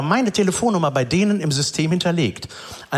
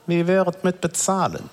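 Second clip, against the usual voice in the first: secretive mechanic; 4 semitones higher than usual. Retold or imitated. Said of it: "immer so zu sprechen, als ob alles ein krasses Geheimnis ist".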